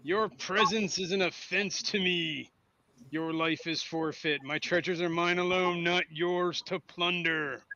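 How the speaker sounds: slow, deliberate villain declaration; monster's pronouncement. Acted. Game master voicing the monster to the players, slow menacing pronouncement. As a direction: proclaim it slowly, drawing out each threat. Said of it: "Or it says".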